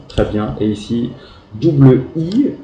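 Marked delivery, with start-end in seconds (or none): 1.5-2.5 "double I" pushed higher and louder; stress on double I. Shown as a demonstration. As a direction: hit "double I" hard to flag the missing letter. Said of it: "parce que c'est oublié". (insister sur "double I", plus haut et plus fort)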